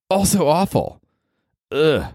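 mock high whine. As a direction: squeak it out as a comic whine. High comic punchline.

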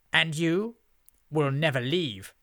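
high, loud imperious threat; menacing witch. A narrator's reading. Witch tells Beef he is trapped, imperious threat. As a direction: pronounce a sentence on a captive.

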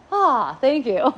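slow, drawn-out thanks into laughter; laughing thanks. Pretend. Thanking the trigger with slow laughing delight. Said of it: "and I'm like".

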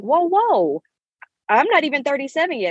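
high, fast startled pushback; playful alarmed whoa; mock protest. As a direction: brush off the number in a rush. Protesting her sisters' remark.

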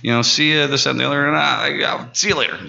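high-pitched, chatty mock-polite goodbye; cheery thanks. Job applicant thanks bar owner on leaving, high and cheery.

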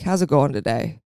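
low, sincere, caring question; genuinely asking. Retold or imitated. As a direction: ask like you really want to know. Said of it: "genuinely ask".

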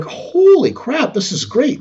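drawn-out, high-pitched "holy crap" of mock amazement; wowed, stretching the first words; amazed. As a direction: act out a delighted discovery, starting way up high. Acted amazed reaction to leg press.

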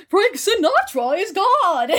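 high, slow laughing shout; mock backwards message. Retelling the backwards satanic message, high laughing shout. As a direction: cry out the hidden message through a laugh. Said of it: "going backwards, like".

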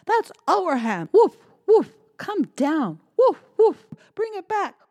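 high, loud barked yells; barking angry dog. Acted. Dog barking at Cat up the tree, furious. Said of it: "the dog barked".

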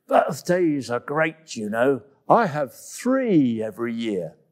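talking while chewing fruit; mumbled. Acted. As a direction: mumble through a mouthful of fruit. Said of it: "And then she mumbled".

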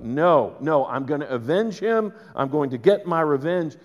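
hot-headed insistence. Retold or imitated. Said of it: "he was like".

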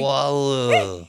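loud, high "Water" with an L-like ending, no R; exaggerated imitation. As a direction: mimic the odd "Water" as "wah-loo". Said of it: "feels so bizarre to do that".

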